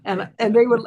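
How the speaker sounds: ordinary delivery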